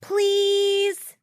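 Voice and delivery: pleading. Acted. Child pleading loudly.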